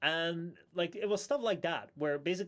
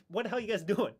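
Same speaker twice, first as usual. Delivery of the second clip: mock exasperation; 6 semitones higher than usual. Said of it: "go insanely mad".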